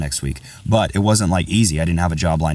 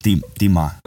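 Russian accent. Shown as a demonstration. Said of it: "with Russian accent".

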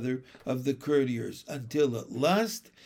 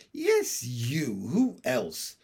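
impatient; 3 semitones lower, slower than usual. A narrator's reading. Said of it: "said the king impatiently".

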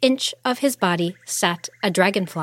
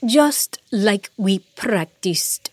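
calm queen; slower than usual. Acted. Queen coaches her daughter.

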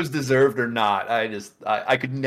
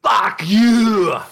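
loud, higher retold insult; retold shouted insult, louder; mock insult; 8 semitones higher, 7 dB louder than usual. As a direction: spit it in his face. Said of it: "And he's like".

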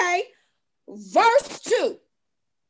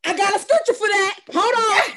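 excited; 4 semitones higher than usual. Real, not acted. Excitedly jumping in.

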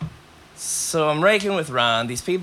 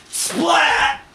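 splat; 10 semitones higher, 3 dB louder than usual. Retold or imitated. Slamming him into window.

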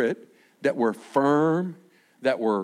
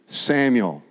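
gentle call; 5 semitones lower, 3 dB louder than usual. Shown as a demonstration. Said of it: "He just said".

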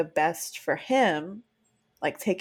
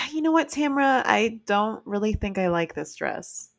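harsh attitude; 2 semitones higher than usual. Shown as a demonstration. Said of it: "It's the same words. It's different attitude".

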